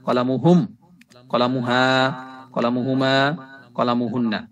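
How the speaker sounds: teacher modelling clear Arabic pronunciation; careful pronunciation. Shown as a demonstration. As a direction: say কলামি, কলামুনা, কলামুকা with clean, careful Arabic sounds. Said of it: "উচ্চারণ আমি সুন্দর করে বললাম".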